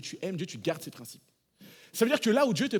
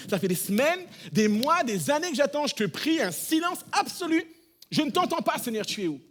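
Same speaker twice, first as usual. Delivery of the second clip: desperate pleading prayer; 8 semitones higher, 4 dB louder than usual. Retold or imitated. Believer crying out to a silent God, rising desperation. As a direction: voice climbing higher and louder in despair.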